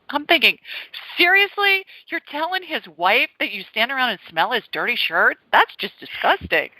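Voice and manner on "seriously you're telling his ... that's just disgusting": higher, incredulous retelling of her reaction; mock disbelief. Wife retelling her outraged thought to listeners with mock disbelief. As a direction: play up the shock at the cleaner's comment.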